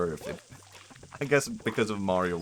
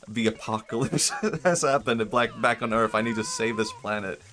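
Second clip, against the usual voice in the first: louder, urgent hero declaration; alarmed movie hero; 3 semitones higher, 6 dB louder than usual. Acted. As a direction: play the panicked hero sounding the alarm. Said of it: "And he's like".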